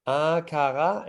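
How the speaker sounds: "Akara" with the R rolled back in the throat; Danish R demo. Shown as a demonstration. Teacher modelling "Akara" with a Danish R. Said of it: "Danish R example".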